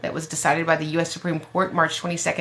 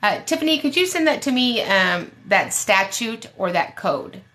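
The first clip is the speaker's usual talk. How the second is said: mock-polite request; 4 semitones higher than usual. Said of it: "I'll just say".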